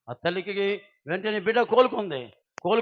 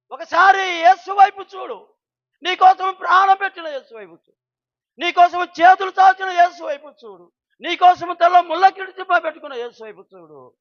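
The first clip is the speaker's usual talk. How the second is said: fervent preaching; 9 semitones higher, 12 dB louder than usual. Acted. Preaching at full force.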